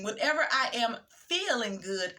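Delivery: "feeling" set apart and stretched; stress on "feeling". Shown as a demonstration. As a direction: lean on the word "feeling". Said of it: "'cause they're emphasizing feeling".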